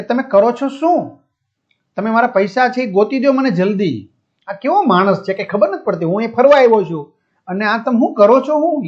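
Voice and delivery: agitated complaint, mildly acted; mock shouting. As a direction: demand answers like an irate customer. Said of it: "મોટે અવાજે બરાડા પાડી રહ્યો હતો".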